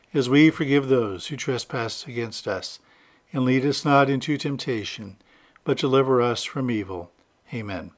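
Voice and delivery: subdued, measured praying voice; prayer. Real, not acted. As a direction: lead the congregation gently in prayer. Leads the Lord's Prayer.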